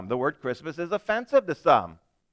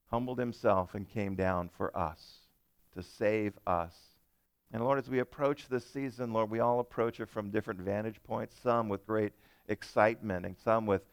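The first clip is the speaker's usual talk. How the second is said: prayer; 2 semitones lower than usual. Real, not acted. Leads opening prayer.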